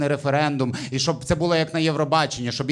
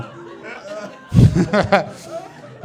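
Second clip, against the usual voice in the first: breathy laugh. Real, not acted. Laughing at own story.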